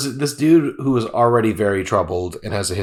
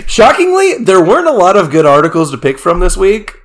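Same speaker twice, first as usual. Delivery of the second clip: news anchor voice; 5 semitones higher, 6 dB louder than usual. Acted. Mock news intro.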